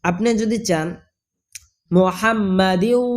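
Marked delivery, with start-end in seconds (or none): 1.9-3.0 মুহাম্মাদিউ with a long final "ইউ"; joined-ending variant. Shown as a demonstration. Teacher offering an option, মুহাম্মাদিউ with stretched ending. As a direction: recite মুহাম্মাদিউ slowly, drawing out the end. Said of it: "বলতে পারেন".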